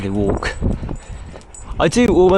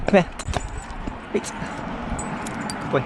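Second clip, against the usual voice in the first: breathy hushed praise for the dog; whispered praise; 3 semitones higher, 7 dB quieter, slower than usual. Real, not acted. Owner whispering praise to his dog by the road, hushed. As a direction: whisper it to keep him calm.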